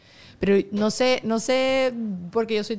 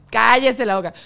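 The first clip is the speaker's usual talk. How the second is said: louder playful shut-up; loud teasing hush; louder mock scolding; 2 semitones higher, 6 dB louder than usual. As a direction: snap it out as a joking command. Joking mock monk scolding.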